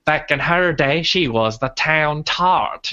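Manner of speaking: creepy rat with a Cajun lilt; lightly put-on Creole accent, drawn out. The creepy rat gossiping, in a weird Cajun Creole accent. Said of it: "weird Cajun, like, Creole thing".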